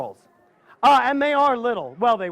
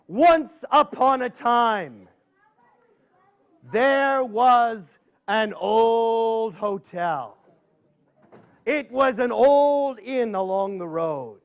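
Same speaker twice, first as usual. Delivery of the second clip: spooky story narration; slower than usual. Acted. Tells a spooky tale.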